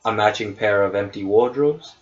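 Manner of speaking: measured game master narration; scene setting. Acted. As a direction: read the room description evenly. Game master reads room description.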